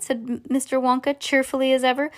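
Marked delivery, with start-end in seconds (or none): none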